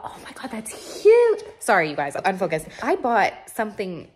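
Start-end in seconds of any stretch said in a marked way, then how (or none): 0.0-1.4 awed whisper. Real, not acted. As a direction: breathe it out in awe. Awestruck in warehouse.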